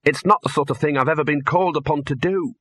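irritated Dean. Acted.

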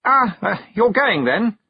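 high, loud, flustered hesitation; nervous stammer. A narrator's reading. Young noble to departing girl, nervously stammering. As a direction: blurt it out awkwardly. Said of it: "as though he was going to explode with nervousness".

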